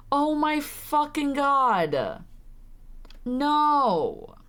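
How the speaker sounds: slow, drawn-out exasperation; fed-up groan of disbelief; exasperated. Real, not acted. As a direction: stretch each word in disbelief. Reacting in disgust to the game.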